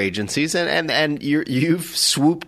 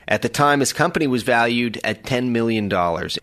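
upbeat announcer read over a music bed; podcast intro. Acted. Host opening the podcast for listeners, bright announcer read. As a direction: sell the show opening like a radio host.

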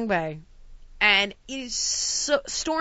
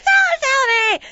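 slow pleading shout; 7 dB louder, much slower than usual. Retold or imitated. Demanding truth from clerk.

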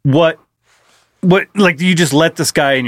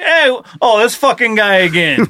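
higher, lightly voiced tough-guy greeting; tough guy in fingerless gloves; 5 semitones higher than usual. Gloved-guy toilet seeing a regular return, mock exasperation. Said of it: "it's like a guy with, uh, leather glo-, you know, fingerless gloves".

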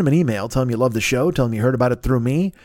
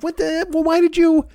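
high, hammed-up indignant complaint; a high, mock-offended rant at the host; mock indignation; 5 semitones higher than usual. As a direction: act betrayed and scold him. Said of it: "which I'm like".

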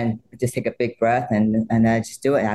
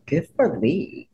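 approving; 4 semitones higher, slower than usual. Retold or imitated. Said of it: "I said".

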